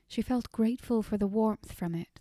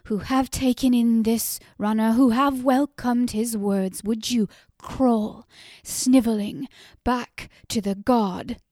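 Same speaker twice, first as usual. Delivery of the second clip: louder, higher scorn at her husband; furious cry; 3 semitones higher, 9 dB louder than usual. A narrator's reading. Wife turning on her husband in disgust, furious. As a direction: spit the contempt at him. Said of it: "Nissa turned on him and cried".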